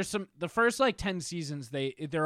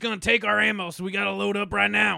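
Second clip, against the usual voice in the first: mock paranoid gun nut; 4 semitones higher, 5 dB louder than usual. Mocking paranoid gun owner.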